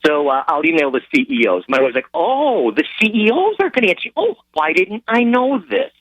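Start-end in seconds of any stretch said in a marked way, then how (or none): 2.1-5.9 high, put-on realization; mocking sarcasm. Wife mocking husband's plan to email CEOs, sarcastic. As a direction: pretend to be enlightened, voice pitched up.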